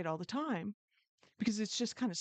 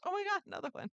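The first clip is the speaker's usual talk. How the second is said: excited; 11 semitones higher, faster than usual. Retold or imitated. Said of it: "another one comes".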